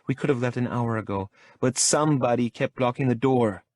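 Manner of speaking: woman grumbling about the guard at the door; Lola's voice. A narrator's reading. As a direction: tease the bodyguard. Lola voiced in the story.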